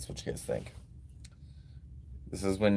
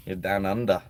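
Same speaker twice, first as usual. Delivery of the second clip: put-on amateur stab at an Australian accent; rough Australian accent. Guessing a donor is from Australia, attempted Australian accent. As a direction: put on a clumsy Aussie accent. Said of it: "I don't know how to do an Australian accent".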